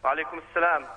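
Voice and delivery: thin phone-line voice; over the phone. Real, not acted. Caller heard via phone line.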